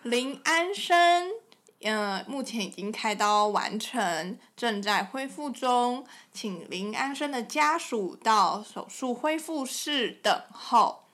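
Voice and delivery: slow, measured announcer read; drawn-out, very slow hospital announcement voice; slow mock hospital intercom; imitating a PA announcement. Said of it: "听到广播说".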